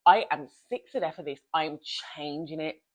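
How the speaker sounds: fed-up outburst. Retold or imitated. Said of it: "where they're like".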